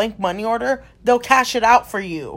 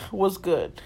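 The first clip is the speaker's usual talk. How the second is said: a rapper; 3 semitones lower, 5 dB quieter than usual. Retold or imitated. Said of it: "You reminded me of Nicki Minaj".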